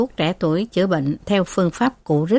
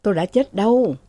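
groaning; 5 semitones higher than usual. Acted. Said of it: "Thừa rên lên".

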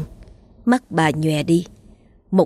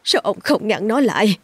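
pitched-up, rushed, desperate cry; wailing; 6 semitones higher than usual. A narrator's reading. Mother wails at her husband for not stopping their daughter. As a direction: wail at the husband in despair. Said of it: "Bà ngồi bệt xuống gào lên".

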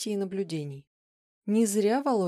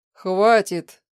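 stern stop; 11 dB louder than usual. Acted. Professor tries to stop her.

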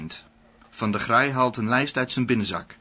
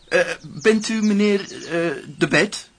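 official's voice; 6 semitones higher than usual. Acted. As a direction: play the smarmy official asking at the window. Van der Graai voiced at the window. (hoge, luide stem van een beleefde ambtenaar)

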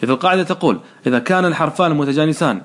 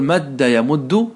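slow demo; 4 semitones lower, much slower than usual. Shown as a demonstration. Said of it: "نقول".

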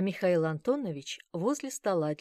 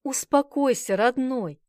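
urgent soothing; 7 semitones higher, 7 dB louder, slower than usual. A narrator's reading. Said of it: "стала уговаривать его".

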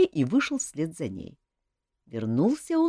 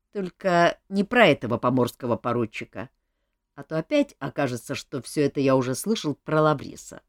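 a hint of the amused king; lightly voiced king, amused; 3 semitones lower than usual. King tells Olga about the ladies, lightly voiced. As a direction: talk like a relaxed king. King's figure voice again.

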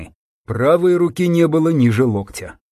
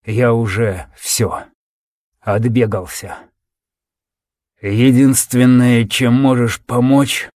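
wounded soldier; slower than usual. Acted. Dying soldier speaking weakly.

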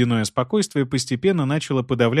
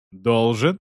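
cold rising должен; cold question. Acted. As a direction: question the word должен coldly. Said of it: "перебил её Кейван".

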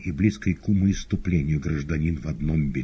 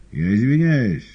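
higher, louder outcry; exclaiming; 8 semitones higher, 8 dB louder than usual. Acted. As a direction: cry out in protest. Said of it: "вскричал Коровьев". (громко вскрикивая)

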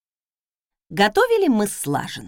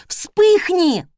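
Вспыхни barked loud and higher; barked command; 9 semitones higher, 6 dB louder than usual. Acted. Losing patience with the stove, barked shout. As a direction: lose patience and yell at it. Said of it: "рявкнула я, теряя терпение".

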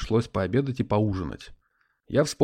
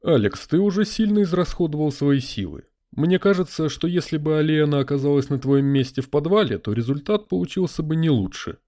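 spirit voice; 4 semitones higher, 3 dB louder than usual. Acted. Spirit in a crystal ball.

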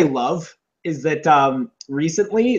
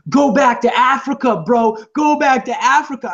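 mock racist taunt; 7 semitones higher, 4 dB louder than usual. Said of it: "they're like".

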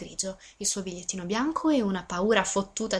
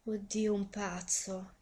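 exclaiming; 4 dB quieter, much slower than usual. Acted. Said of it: "esclamò Maurice".

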